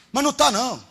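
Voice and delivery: preacher shouting it down; loud denial. Acted. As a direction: hammer the denial home.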